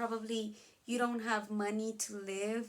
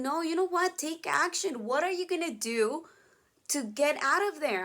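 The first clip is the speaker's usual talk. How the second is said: louder, pushing them to take action; firm urging; 4 dB louder than usual. Real, not acted. Teacher loudly urging students to stop whining and act. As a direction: snap them out of self-pity, loudly.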